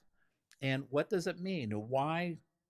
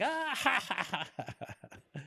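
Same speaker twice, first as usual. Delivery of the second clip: imitated laughter; 10 semitones higher, slower than usual. Trainer acts out a wise guy cracking up, imitated high laughing. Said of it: "he starts laughing".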